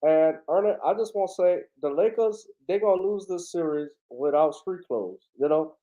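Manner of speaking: lightly voiced Southern pundit signing off; casual TV basketball analyst voice; Charles Barkley. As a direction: wrap up in a mild ex-player impression. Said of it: "Charles Barkley gonna get out of here".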